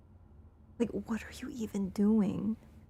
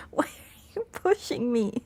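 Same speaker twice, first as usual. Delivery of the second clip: laughing whisper; 3 semitones higher than usual. Real, not acted. Cat shoving her, laughing whisper.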